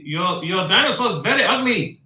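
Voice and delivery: lightly hammed-up insult, sing-song and quick; playful taunt. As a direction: tease a rival with a pretend jeer. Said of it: "try and taunt him".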